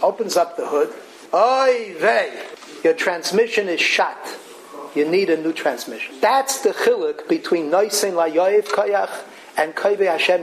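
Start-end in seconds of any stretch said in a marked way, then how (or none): 1.3-6.2 lightly voiced Yiddish oy vey; a hint of an old Yiddish mechanic; yiddish accent. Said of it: "a tzaddik ayid".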